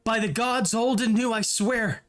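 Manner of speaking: understated frightened captive; touch of fear. Acted. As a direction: swear it with mild fear. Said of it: "there's notes in his, uh, in his voice that show, um, that, that, that kind of demonstrate fear".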